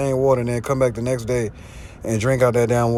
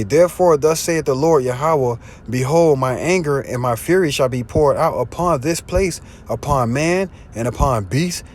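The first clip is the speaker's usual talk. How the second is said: scripture preaching; 2 semitones higher than usual. Acted. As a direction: declaim it like a prophet's warning. Reads scripture aloud, preaching.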